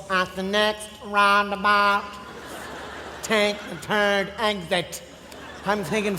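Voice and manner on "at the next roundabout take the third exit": slow, prim English sat-nav voice, lower. Retold or imitated. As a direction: read the directions like a posh English sat nav. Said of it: "you hear this voice".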